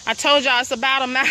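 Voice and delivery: talking while walking fast; huffing and puffing between words; out of breath. Real, not acted. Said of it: "I'm huffing and puffing".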